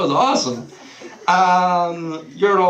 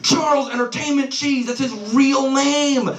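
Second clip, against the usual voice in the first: frantic blurting; 11 semitones higher than usual. Retold or imitated. Brother finally explaining his point to sibling, frantic yelling. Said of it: "eventually he blurts out".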